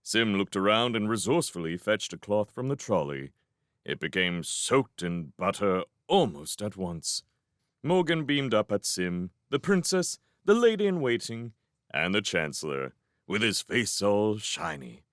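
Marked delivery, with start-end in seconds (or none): none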